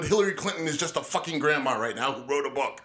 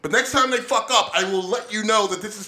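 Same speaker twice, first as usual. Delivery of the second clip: loud and raised, pushing back; heated insistence; 3 semitones higher, 5 dB louder than usual. Real, not acted. Defending his rant to Jim, loud and heated. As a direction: insist loudly on the point.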